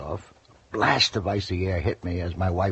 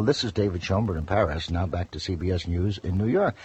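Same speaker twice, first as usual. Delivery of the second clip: crisp sign-off, newsman style; a mild announcer sign-off; comedian's sign-off in announcer voice; clear as a bell. Retold or imitated. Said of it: "clear as a bell".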